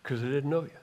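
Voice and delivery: solemn verdict. Retold or imitated. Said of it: "He simply said".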